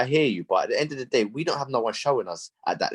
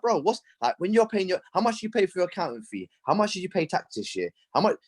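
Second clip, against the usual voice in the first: retold pleading question; 7 semitones higher than usual. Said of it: "I'm like".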